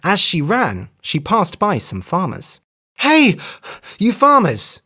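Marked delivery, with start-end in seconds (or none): 3.0-4.8 high, loud call across a field. A narrator's reading. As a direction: hail the farmers from afar. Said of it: "she cried".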